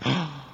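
sharp mock intake of breath; imitated gasp. Retelling her moving her leg, imitated startled gasp. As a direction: gasp as she did, then a small "oh". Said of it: "and she just goes".

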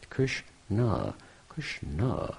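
"Krishna" split softly into two syllables; "Krishna" gently pulled apart, Krish-naa. Shown as a demonstration. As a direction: say "Krishna" as Krish, then a long na. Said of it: "put these two syllables together".

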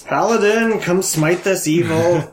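slow, grand heroic call; rally them like a hero. Acted.

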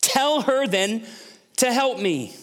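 high, slow, whiny plea to Jesus; Martha complaining. Acted. Martha complains to Jesus about her sister, high whiny plea. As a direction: act out a put-upon sister pleading. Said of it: "and said to him".

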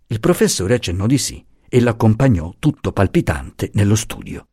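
ordinary delivery, nothing marked

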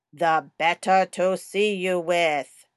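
lightly voiced storybook wolf for a child. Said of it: "Let's talk like the wolf".

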